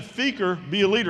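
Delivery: retold coach getting insistent. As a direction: press the order home with growing intensity. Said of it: "he's getting a little more intense".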